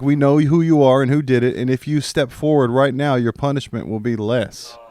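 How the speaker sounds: stern mock cop warning; cop interrogation voice. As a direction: play the bluffing cop. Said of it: "old cop shit".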